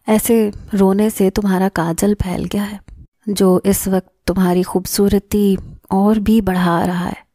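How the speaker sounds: a touch of dreamy tenderness; intoxicated tone. Acted. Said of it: "مخمور لہجے میں". (ہلکا سا مخمور نرم لہجہ)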